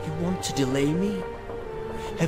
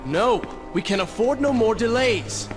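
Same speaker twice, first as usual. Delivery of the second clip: impatient refusal; 5 semitones higher than usual. Acted. Prince refuses to turn back.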